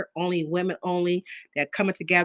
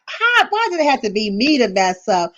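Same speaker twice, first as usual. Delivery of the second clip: mock despair; 4 semitones higher, 6 dB louder than usual. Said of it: "I'm like".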